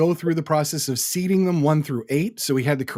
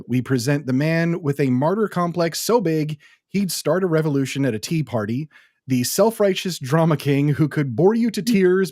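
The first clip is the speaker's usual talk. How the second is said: ring announcer. Shown as a demonstration. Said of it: "my ring announcer voice going here".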